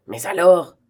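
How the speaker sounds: loud, startled outcry; exclaiming. A narrator's reading. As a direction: burst out at the court. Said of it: "s'écria le président". (s'écrier fort)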